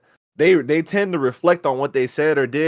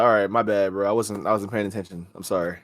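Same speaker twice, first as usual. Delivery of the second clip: sheepish apology; 6 semitones lower, 7 dB quieter than usual. Retold or imitated.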